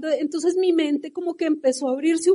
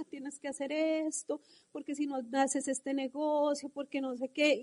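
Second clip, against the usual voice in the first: mimicking calm speaker; 12 dB quieter than usual. Imitating the calm keynote speaker on stage, quietly. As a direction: imitate his calm, easy tone. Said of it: "con toda la tranquilidad".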